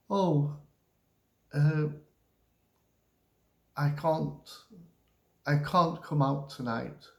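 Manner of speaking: mildly regretful, hesitant refusal; hesitate, then let the tone drop; sad falling tone. Shown as a demonstration. Teacher modelling turning down a night out, regretful falling tone. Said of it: "goes down too".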